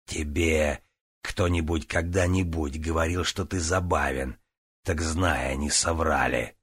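low sneering villain. Acted. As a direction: taunt him low and cold. Relos Var taunts Grist.

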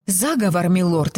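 plain reading voice

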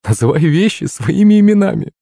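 high, playful woman's voice; amused teasing. A narrator's reading. Mother correcting the name of the soup, amused. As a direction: pitch it well up, teasingly. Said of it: "засмеялась маман".

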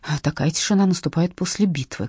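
ordinary delivery, nothing marked

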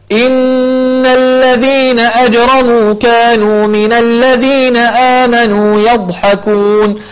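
slow drawn-out Quran chanting; tajweed recitation. Shown as a demonstration. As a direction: chant the verse slowly with tajweed. Teacher recites the verse. (تلاوة مجودة بطيئة)

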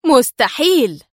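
"مستحيل!" cried out in disbelief, moderately loud; "مستحيل!" as astonished disbelief, not yet rage; stunned exclamation. Acted. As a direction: gasp out "مستحيل!" in shock. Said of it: "هتف ديفيد بالكلمة في ذهول".

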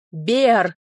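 громкий крик имени, без сдвига высоты; позвать врага во весь голос; заорал. Acted. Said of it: "заорал он". (ворвался в особняк и орёт)

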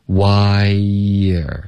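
"Wire" stretched long, with a light y before er; drawn-out "Wire", why gliding into a weak er; linking y glide. Shown as a demonstration. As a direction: say "Wire" slowly as why-yer. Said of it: "会添加一个很轻的一个耶音".

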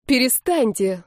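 a mild plea to stop; pleading. Acted. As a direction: beg her to stop, lightly voiced. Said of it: "взмолилась Лера".

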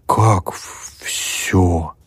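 halting, flustered question; alarmed. A narrator's reading. Sisters flustered by the student's demand, alarmed. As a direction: stumble over it in alarm. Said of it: "переполошились сёстры".

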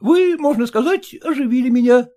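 grateful son-in-law, high and ingratiating; high, fawning gratitude. Acted. Son-in-law thanking father-in-law, high and fawning. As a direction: lay the thanks on thick.

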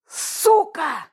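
sudden loud exhaled curse; loud outburst. A narrator's reading. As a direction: blurt it out loudly. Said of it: "неожиданно громко выдохнул Волк".

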